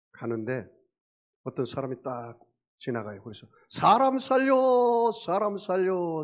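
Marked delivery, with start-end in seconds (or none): 3.7-6.2 long high shout, then fading; acted cry for help. Sinking man to next passerby, shouting for help. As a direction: stretch out a loud yell for rescue.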